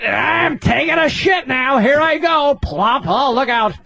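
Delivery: white guy impression. Comic mocking a white man on the toilet, hammed up. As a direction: ham up a fussy white man. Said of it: "You ever see a white motherfucker take a shit?".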